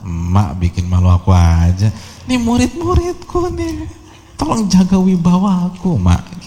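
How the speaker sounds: hammed-up grown son scolding his mother; embarrassed son scolding. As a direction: whine at mum like a sulky pupil. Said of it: "Ngamarin ibunya".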